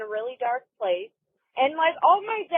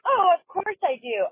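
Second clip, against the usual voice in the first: grandma's sweet reply; 8 semitones higher than usual. Retold or imitated. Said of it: "my grandma was like".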